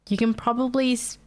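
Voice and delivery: congested, stuffy nose voice; talking through a blocked nose. Real, not acted. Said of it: "slightly hear that I'm a bit congested".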